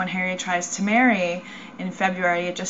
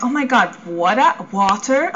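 louder mock sister, incredulous rise; 4 dB louder than usual. Sister mocking her new way of saying water, louder. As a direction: imitate a sister mocking the vowel. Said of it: "My sister's like".

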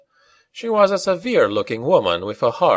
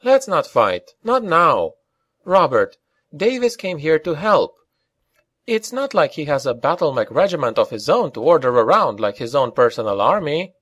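high-pitched plea for peace; raised, urgent peacemaking plea; pleading; 7 semitones higher than usual. A narrator's reading. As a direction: plead with them, voice lifted. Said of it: "pleading in her voice".

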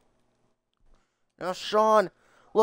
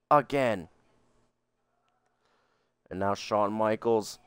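excited play-by-play call; wrestling commentator; 2 semitones higher than usual. Acted. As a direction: call the match like a ringside announcer. Plays wrestling commentator over game.

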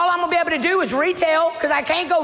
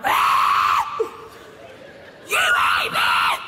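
much lower, rough mocked jeer; mocking demon voice; much slower than usual. The enemy jeering at her, low demon voice. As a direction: growl it like a sneering devil.

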